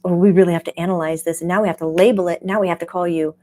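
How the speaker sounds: fast, busy inner voice ticking off labels; a hint of a fussy inner critic; imitating the analytical mind. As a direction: rattle it off like an overthinking mind. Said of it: "the heady side of you goes".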